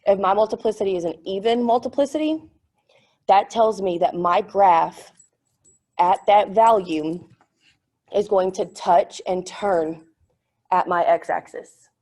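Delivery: talking around a piece of gum; chewing gum. Real, not acted. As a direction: gum in the mouth while speaking. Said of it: "I put gum in my mouth".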